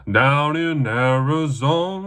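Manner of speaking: slow, drawn-out announcer voice; announcer call. Acted. Talker repeating the announcer tag for the fight. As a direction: stretch it like a ring MC.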